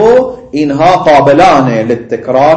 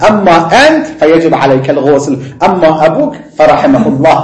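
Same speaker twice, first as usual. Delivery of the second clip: firmly repeating his own ruling, half laughing; teacher re-enacting his decisive answer, with laughter; mock decisive. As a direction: deliver it like a settled verdict, with a chuckle. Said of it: "خیلی قاطع".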